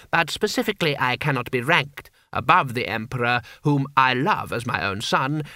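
lightly voiced obsequious courtier; a touch of courtly grovelling; fawning vizier.

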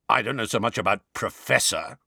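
put-on gruff old auror growl. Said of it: "growled the voice".

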